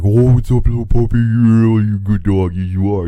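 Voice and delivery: put-on high, loud baby talk to a puppy; dog voice. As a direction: coo at the dog, high and bright. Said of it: "I get my fucking dog voice on".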